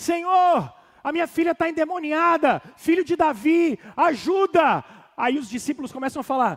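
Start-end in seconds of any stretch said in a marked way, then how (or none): 0.0-4.8 loud, acted shout. Retelling a Bible scene, a woman crying out to Jesus: imitating a woman shouting for help. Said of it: "imagina ela gritando".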